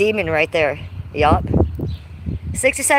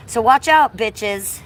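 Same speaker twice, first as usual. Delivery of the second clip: loud warning; 4 dB louder, slower than usual. Real, not acted. Warning trolls in chat, loud. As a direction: warn them off sharply.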